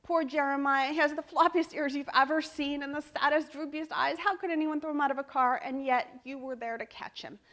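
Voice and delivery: put-on a little girl pleading for the dog; child narrator. Shown as a demonstration. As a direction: read it like an emotional little kid. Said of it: "You can do the child narrator sometimes".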